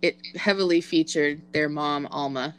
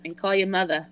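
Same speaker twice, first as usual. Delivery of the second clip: bad Boston accent, dropped r's; hammy Boston accent, "mothah". Shown as a demonstration. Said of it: "That was my very, very bad Boston accent".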